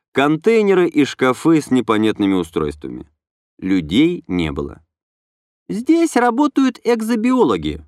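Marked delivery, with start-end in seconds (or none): 5.7-7.9 light, higher female voice; young woman voice. A narrator's reading. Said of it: "пояснила Инна".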